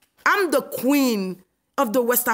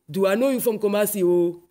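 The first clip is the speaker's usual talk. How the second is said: mock Ghanaian accent, quick and light; imitating Ghanaian accent; 2 semitones lower than usual. Ghanaian stranger stopping her in the street, light mock Ghanaian accent. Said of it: "they stop me and they say".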